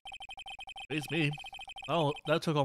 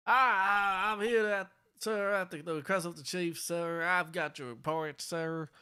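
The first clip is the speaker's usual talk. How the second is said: nervous officer voice; 4 semitones higher, slower than usual. Acted. Meekins voice continues.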